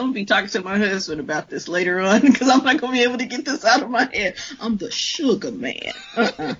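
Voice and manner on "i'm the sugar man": lower-pitched mock Sugar Man; laughing catchphrase imitation. Co-host can't get the catchphrase out of her head, amused imitation. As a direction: mimic the deep tagline through laughter.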